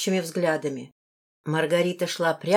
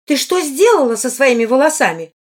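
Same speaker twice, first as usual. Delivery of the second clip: shocked exclamation; 7 semitones higher, 9 dB louder than usual. A narrator's reading. A woman sees the girl's messy hair, exclaiming aghast. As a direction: exclaim in appalled disbelief. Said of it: "воскликнула она".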